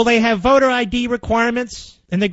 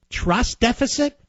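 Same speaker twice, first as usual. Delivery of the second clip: mocking echo; 4 semitones higher than usual. Shown as a demonstration. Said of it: "This is the ruling class talking to itself".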